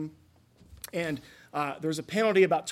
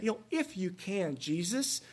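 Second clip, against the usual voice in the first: doubtful; 3 semitones higher than usual. Shown as a demonstration. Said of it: "should have never said".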